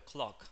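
"clock" with a clear O vowel; O sound. Shown as a demonstration. Teacher models the vowel, "clock" with an O sound. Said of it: "Ese es un sonido de O".

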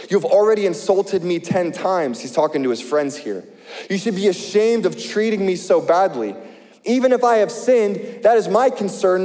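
earnest preacher reading scripture. Acted. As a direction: read Job's complaint with feeling. Reads Job nineteen aloud.

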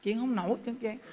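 soft, fading murmur; imitating feeble speech. Preacher shows a young man unable to talk, weak murmur. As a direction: trail off as if too weak to talk. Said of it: "nam thanh niên mà nói chuyện".

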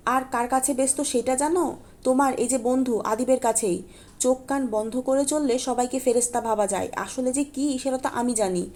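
spiteful angry jab; still ranting. Acted. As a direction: keep the angry flood going. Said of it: "মাহাদির কথা থামেই না".

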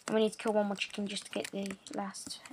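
quick unvoiced whisper. Real, not acted. Gamer whispering while sneaking up on a chicken. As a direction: hush it fast so the chicken won't hear.

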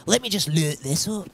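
another clumsy stab at a Scottish accent. Shown as a demonstration. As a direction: try the vowels in Scottish. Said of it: "such a hard accent to do".

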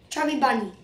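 first marshmallow in the mouth; cheeks stuffed full. Real, not acted. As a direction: say it around one marshmallow. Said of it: "Basically, I put this in".

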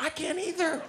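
high, squeaky mock panic; squeaked desperation; panicked agreement. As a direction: blurt it in a small high voice.

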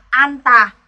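"an tà" with a clear n closing "an"; slow, emphatic "an tà"; first final consonant read. Shown as a demonstration. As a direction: model "an tà" slowly, n before the t. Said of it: "phát âm theo phụ âm niên".

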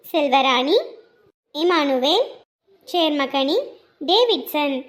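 measured roll-call of names with pauses; deliberate, formal name-by-name delivery; birthday announcement. Real, not acted. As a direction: read out greetings like a radio announcer. Reads out birthday greetings.

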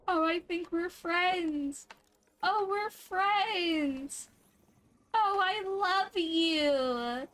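very slow tender coo to a creature. Real, not acted. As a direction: melt over a new friend. Befriending a creature.

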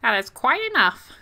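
trying on the hero's stern voice; game character voice. Pretend. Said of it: "That seems like the voice".

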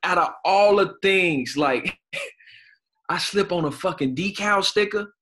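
high, loud, laughing through the words; can't stop laughing while telling it. Real, not acted. Laughing to a friend about slipping on a sticker. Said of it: "Hey, it's not funny".

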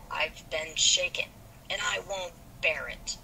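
a touch of indignant growl. Acted. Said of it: "growled Laurie indignantly".

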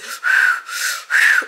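long unvoiced sigh of pain; breathing through pain. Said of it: "I'm trying to breathe through the pain".

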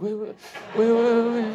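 high, urgent repeated calls; calling after someone. Retold or imitated. Comedian running after a fan, urgent calling.

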